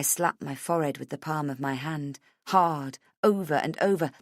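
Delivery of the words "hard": ordinary delivery, nothing marked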